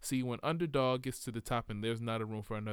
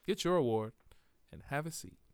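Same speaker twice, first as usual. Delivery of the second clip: exasperated hush; 5 semitones higher than usual. Pretend. Telling the lady to hush.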